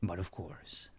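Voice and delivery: a touch of stately church leader, hushed then rising; lightly voiced holy leader. Plays holy leader in roleplay.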